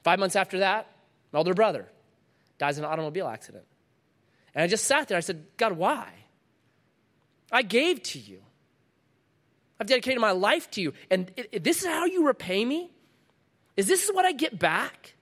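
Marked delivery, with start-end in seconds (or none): 5.6-15.2 hurt protest to God, rising in pitch; angry plea. Retold or imitated. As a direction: build from pleading to high-pitched, incredulous questioning. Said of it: "I got angry".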